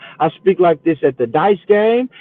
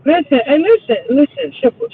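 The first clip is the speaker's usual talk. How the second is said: each listen pitched higher, climbing to a near-yell; insistent calls; 10 semitones higher, faster than usual. Real, not acted. Cutting in on Shipper to be heard, rising insistent calls. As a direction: keep climbing until they let you in.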